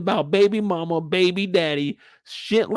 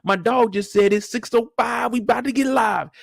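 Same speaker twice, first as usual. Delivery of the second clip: hyped; 4 semitones higher than usual. Retold or imitated. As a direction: hype it up like a fight is starting. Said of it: "I'm like".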